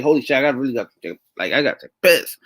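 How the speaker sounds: a lightly put-on Greek accent, rushed; a hint of a Greek accent, blurted out fast; Giannis's harsh accent. Streamer imitating Giannis in a game, a light Greek accent. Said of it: "that harsh accent from him".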